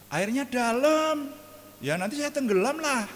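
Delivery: high, loud, slow whiny plea; mock-scared plea. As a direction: beg the Lord, afraid of sinking. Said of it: "saya bilang".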